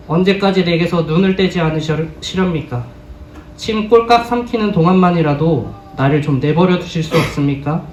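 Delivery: solemn Bible reading, feeling held in check; a measured, grave reading of a sorrowful psalm-like plea; restrained scripture reading. Acted. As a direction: read Job's lament, holding back the emotion. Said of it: "감정을 제어해서 읽었습니다".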